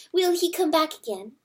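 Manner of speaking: high, anxious little mouse voices; frightened mice. A narrator's reading. Terrified mice begging the hen for news, high and anxious. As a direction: squeak it out like scared mice.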